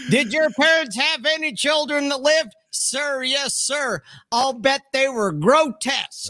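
barking drill instructor; drill sergeant. Retold or imitated. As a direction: bark it like a boot camp sergeant. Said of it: "Let's get it right. He said".

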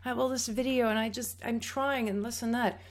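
a mock-tearful telling of the student to her teacher; through tears. Student pouring out her effort to the teacher, tearful. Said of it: "I, through tears".

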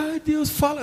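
high, soft whiny plea to God; mock whiny believer. Pastor mocking a believer who begs God to speak, whiny. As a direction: mimic a needy believer, thin and pleading.

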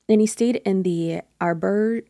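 a hint of a hammed-up French accent on "Auberge"; lightly put-on French accent, playing it up; un léger accent français exagéré; mock French accent. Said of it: "horrible French accent".

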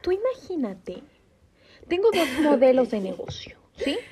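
secretive whisper. Real, not acted. Secret idea, fears it's stolen.

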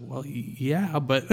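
retold reluctant, stammered yes; mildly apprehensive, trailing into a but; nervous hesitation. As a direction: agree haltingly, with obvious doubts. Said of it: "I was getting very apprehensive, very nervous".

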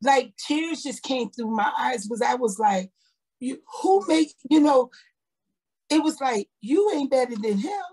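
telling her friends how God spoke to her, rising and overcome; moved, rising emotion. Real, not acted. Retelling the Spirit's words, moved.

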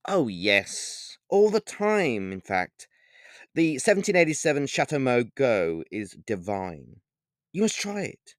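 lightly voiced suave vampire; snooty vampire.

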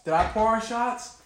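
hiccuping while talking; hiccups. Real, not acted. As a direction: speak with the hiccups. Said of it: "I got the hiccups going".

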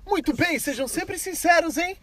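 high, slow approving cop. Retold or imitated. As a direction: play the cop praising them. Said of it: "Aí ele".

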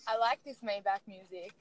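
lightly voiced producer tag. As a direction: repeat it like a beat tag intro. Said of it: "say it again".

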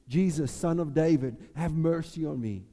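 a touch of a loud plea; calling out. Acted. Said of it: "which goes".

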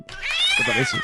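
squeaky falsetto. Acted. Falsetto joke after tangent.

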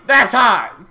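loud, high laughing hype; excited laughing shout. Real, not acted. Hyping up a new subscriber.

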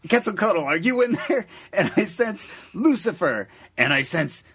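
booming mock exorcist; preacher voice. Imitating Bob Larson sensing demons.

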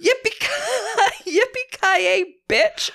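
high, loud mock war cry; hammed-up, drawn-out yell; imitated battle yell. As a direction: whoop it out, breaking into laughter. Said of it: "Monica yells out".

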